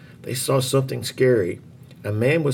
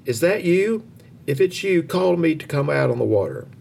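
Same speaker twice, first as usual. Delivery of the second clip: eager crying out; 5 semitones higher than usual. A narrator's reading. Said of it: "he cried".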